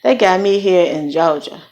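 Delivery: a light Southern drawl on Georgia; hint of a Southern accent. Shown as a demonstration. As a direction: lean lightly into a Southern US twang. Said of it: "I said that on purpose".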